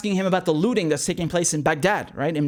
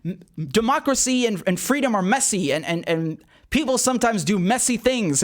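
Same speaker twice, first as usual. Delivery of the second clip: lightly voiced shrugging official, higher; airily brushing off the question, pitched up; mock Donald Rumsfeld; 6 semitones higher than usual. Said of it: "and he's like".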